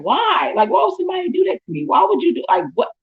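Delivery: high, fast, shouted why; retold anguished yell at the stranger. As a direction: cry out why in hurt disbelief. Retelling her hurt after the assault.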